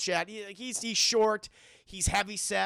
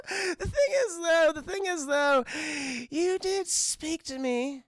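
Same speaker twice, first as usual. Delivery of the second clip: Joker; 8 semitones higher, slower than usual. Acted. Correcting Charlie after his apology, menacing. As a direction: turn from giggly to deliberate menace. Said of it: "Joker's like".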